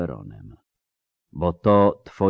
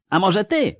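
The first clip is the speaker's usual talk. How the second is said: much higher shrieking taunt; screaming taunt; 14 semitones higher, 3 dB louder than usual. A narrator's reading. Ciri screaming a taunt at Avallac'h, loud and high. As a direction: scream the challenge at him. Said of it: "wrzasnęła".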